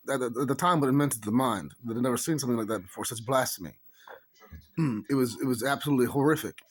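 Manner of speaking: affected Irish dialect; put-on Irish accent. Explaining the naval jack to viewers, put-on Irish accent. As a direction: keep up an assumed Irish voice.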